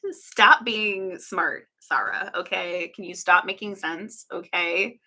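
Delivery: mock-indignant telling-off; sarcastic. Streamer jokingly scolding Sarah for making sense, sarcastic. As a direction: play at being offended by good sense. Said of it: "This is all sarcasm".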